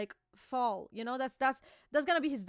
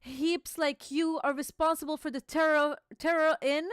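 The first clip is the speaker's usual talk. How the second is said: a hint of an angry giant lecturing; stern king voice; 3 semitones higher, 4 dB louder than usual. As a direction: read the king's speech with a touch of gravity. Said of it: "He's like".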